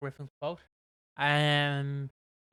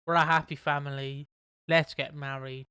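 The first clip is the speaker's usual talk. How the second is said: Barney rhyme; 4 dB louder than usual. Retold or imitated. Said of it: "doing a fucking Barney rhyme".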